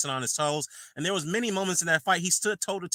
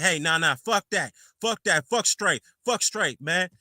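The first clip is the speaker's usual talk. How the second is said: mock angry rant; 3 semitones higher, slower than usual. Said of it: "he's like".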